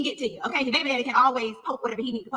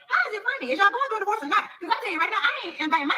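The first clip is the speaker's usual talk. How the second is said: laughing disbelief; 8 semitones higher than usual. Real, not acted. Laughing at Drew's excuse.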